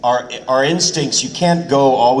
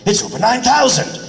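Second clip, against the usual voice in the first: quick first take; 12 semitones higher than usual. Shown as a demonstration. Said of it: "We'll just see the line and go".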